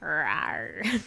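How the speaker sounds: playful mock growl; half-hearted little beast roar; feral rawr. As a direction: growl like a wild animal, jokingly. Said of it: "Feral A S M R".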